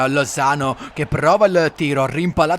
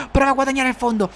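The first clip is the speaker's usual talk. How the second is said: breathless italian goal commentary; 13 semitones higher than usual. Acted. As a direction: shout the goal. Goal call shout.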